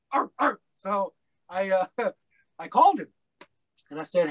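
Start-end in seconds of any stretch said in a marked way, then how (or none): 0.1-0.6 a high, hammed-up dog-like bark; playful imitation of a rapper's bark; mock rapper bark. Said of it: "he sounded like a rapper".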